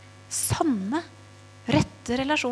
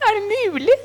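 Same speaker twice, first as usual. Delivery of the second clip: high, loud disbelief; stunned, pitched way up; astonished; 11 semitones higher, 7 dB louder than usual. Retold or imitated. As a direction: gasp it out in shock. Stunned at friend's confession.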